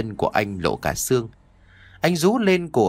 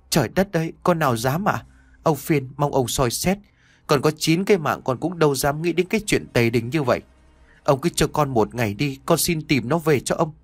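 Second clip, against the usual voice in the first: a frightened servant begging, slightly raised; pleading servant; 3 semitones higher than usual. Acted. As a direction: beg the lord for one more day. Servant begs master.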